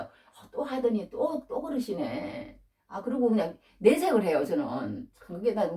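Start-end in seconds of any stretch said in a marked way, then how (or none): 0.0-2.6 slow, dragged-out grumble; mock complaint to oneself; acted-out grumbling. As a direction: here we go, muttered slowly. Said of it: "그러면서".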